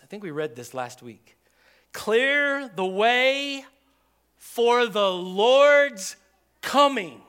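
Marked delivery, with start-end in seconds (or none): 1.9-7.2 very slow, loud and high, ringing out; prophetic proclamation. Retold or imitated. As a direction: call it across the wilderness.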